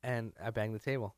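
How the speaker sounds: chewing while talking; mouth full. Real, not acted. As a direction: talk through a mouthful. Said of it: "You're chewing into the microphone".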